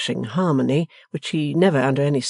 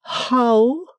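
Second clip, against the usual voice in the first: high, loud stately matron command; Mrs Wilfer's order; 10 semitones higher, 4 dB louder than usual. Acted. Stately mother orders the servant onward, imperious. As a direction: proclaim it like a grand lady. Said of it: "repeated Missus Wilfer".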